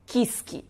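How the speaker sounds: "quisque" with a full I after the K; wrong extra vowel. Shown as a demonstration. Teacher showing what X is not, vowel-padded cluster. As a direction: break the cluster into "kis-ke". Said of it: "é x e não".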